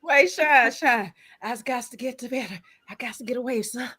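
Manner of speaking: lightly hammed-up old Southern accent; mock antebellum Southern accent. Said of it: "where did Chris get this slave accent from?".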